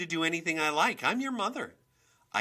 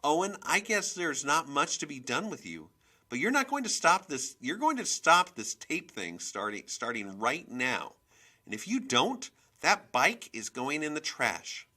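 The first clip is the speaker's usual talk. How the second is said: loud, high-pitched tirade; furious mother laying into her kids; angry scolding; 6 semitones higher, 8 dB louder than usual. A narrator's reading. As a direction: lay down the law, loudly. Mother scolds and threatens her children.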